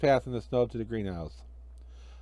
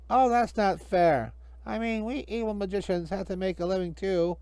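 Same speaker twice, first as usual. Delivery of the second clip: whining magician; 7 semitones higher than usual. Acted. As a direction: plead your case. Hinkle whines.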